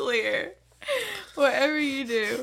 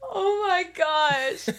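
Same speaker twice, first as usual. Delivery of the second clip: laughing; 2 semitones higher, slower than usual. Real, not acted. Laughing fit, slow.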